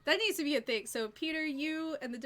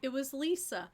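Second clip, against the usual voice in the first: usual speaking voice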